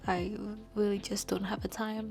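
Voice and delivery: quiet whisper; whisper, partner still asleep. Real, not acted. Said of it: "Harriet's sleeping and I don't wanna wake him up".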